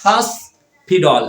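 slow American-accented "হসপিটাল"; slow demo of American pronunciation. Shown as a demonstration. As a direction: say "হসপিটাল" slowly with an American flapped t. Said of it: "এটা হচ্ছে American accent".

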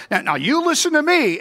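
high, loud stern rebuke; preacher channeling Paul, stern and loud; stern warning as Paul. Retold or imitated. Preacher voicing Paul's stern warning.

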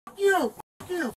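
dropping from a shout to a near whisper; fading hissed curse. Real, not acted. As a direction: spit it out under your breath. Arrestee after shouting, spitting curses.

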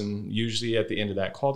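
ordinary talk, nothing marked

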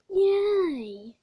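high loud happy yay; excited cheer. Pretend. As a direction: cheer at your own trick. Teleport trick succeeds.

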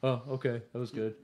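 understated deadpan reaction; mild imitation of an emotionless player; total monotone. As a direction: play it completely unimpressed. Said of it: "just the total monotone".

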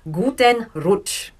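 Guten Rutsch said slowly, GOO-ten ROOTCH; slow German demo. Shown as a demonstration. Teacher introducing New Year greeting, slow. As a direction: model Guten Rutsch clearly. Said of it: "They also say".

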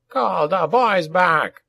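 high, slow goblin bellow; drawn-out goblin commander's call; bellowed order. A narrator's reading. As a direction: holler the order to a distant rider. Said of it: "Nazbot bellowed to a rider".

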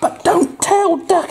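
high, sneaky little frog voice; squeaky Froggy voice. Acted. Parent voicing Froggy to a child, high and sneaky. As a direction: whisper it like a cheeky secret keeper.

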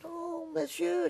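very high, slow Belgian woman impersonation; high, drawn-out retold exclamation; accented Belgian woman. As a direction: mimic an awed Belgian woman. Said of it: "had a, an accent when she spoke".

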